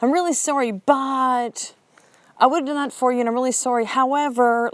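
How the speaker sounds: mock apology that sets up an excuse; excuse-laden apology. Showing boys what not to say, excuse-laden apology. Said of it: "There's no excuses or reasons".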